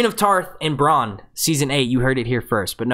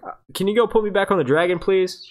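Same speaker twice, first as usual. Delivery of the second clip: Tyrion voice; 5 semitones higher than usual. Retold or imitated. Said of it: "Tyrion, he's like".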